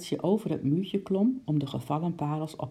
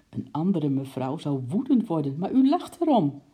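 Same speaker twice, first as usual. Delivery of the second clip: admiring; 4 dB louder than usual. Acted. Uncle admires the lady for laughing, rising admiring tone. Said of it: "zei oom Nijltje bewonderend".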